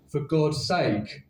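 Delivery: slow mechanical "For God's sake"; the taxi honks "For God's sake" slowly; car horn voice. Pretend. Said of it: "pipping its horn".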